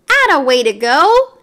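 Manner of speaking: barker shout. A narrator's reading. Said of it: "Mario shouted".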